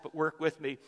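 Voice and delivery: ordinary talk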